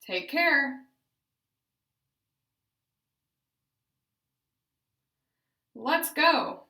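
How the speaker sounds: loud, clear practice phrases with questions rising; therapy drill phrases, loud and deliberate; deliberate, intentful. Shown as a demonstration. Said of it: "use intent when speaking".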